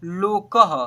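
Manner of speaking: लोकः said as lo-kaha; visarga ending. Shown as a demonstration. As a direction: close लोकः on a clear aha. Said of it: "अह है last में". (लोकः में विसर्ग का साफ़ उच्चारण)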